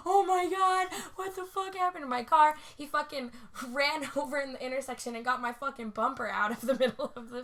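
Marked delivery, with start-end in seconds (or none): 0.1-2.5 high, loud dismayed outburst; retold shock. Hearing her wheel scratching, retold shock. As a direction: re-enact alarm at the damage.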